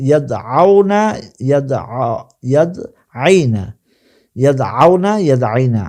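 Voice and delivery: ইয়াদআউনা and ইয়াদআইনা said syllable by syllable, the আ held long; model Arabic pronunciation. Shown as a demonstration. Teacher drilling students on Arabic verb endings, careful recitation. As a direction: recite each form clearly so students can copy it. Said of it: "আশা করি আমার উচ্চারণটা আপনারা বুঝতে পেরেছেন".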